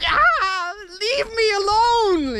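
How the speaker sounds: high, whiny mock wail; put-on tormented high cry; exasperated wail. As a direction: cry out in acted exasperation at an inner voice. Acted reaction to the voice.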